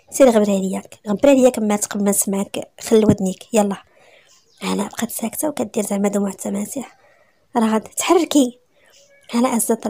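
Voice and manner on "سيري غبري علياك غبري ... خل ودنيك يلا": louder, forceful order to get out; angry dismissal. Acted. Jealous wife throws Hana out, loud angry dismissal. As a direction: send a rival packing, loudly.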